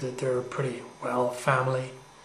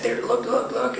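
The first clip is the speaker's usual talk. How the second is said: high, loud urgent cry; mock scream; 10 semitones higher, 6 dB louder than usual. A narrator's reading. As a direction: call out in alarm, higher and louder. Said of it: "suddenly she screamed and she said".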